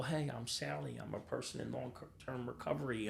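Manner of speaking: lightly voiced upbeat meeting regular; happy meeting member. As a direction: mimic a recovering addict introducing herself. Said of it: "watching these people smile and be happy".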